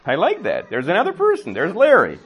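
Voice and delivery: hushed ooh rising into excited glee; delighted. Retold or imitated. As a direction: start hushed then build up, thrilled by a new player. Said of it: "I'm like".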